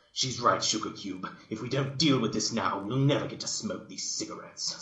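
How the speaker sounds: folksy farm pony, firm; a hint of a southern farm girl insisting; Applejack. Applejack voiced.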